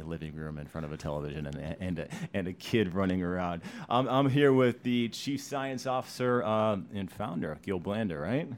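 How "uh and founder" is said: normal talking voice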